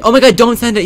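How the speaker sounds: high, loud panicked squeal. Real, not acted. Gamer panicking over a sent chat message, high squeal.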